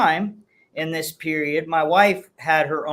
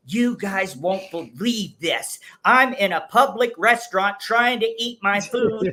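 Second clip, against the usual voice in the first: lightly raised mock-Karen voice, drawn-out start; put-on video complainer; 3 semitones higher than usual. Husband reenacts his restaurant video for the hosts, mock-indignant Karen. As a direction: play a mildly hammed-up Karen complaining on camera. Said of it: "I hit record and said".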